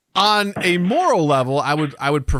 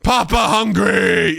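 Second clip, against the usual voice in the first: 1 creepy toilet whisper; 7 semitones higher, 4 dB louder than usual. Pretend. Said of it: "It whispers".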